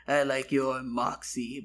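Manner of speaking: slow, put-on sultry goblin line; voice changed, seductive. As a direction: draw it out a touch seductively. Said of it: "My voice changed".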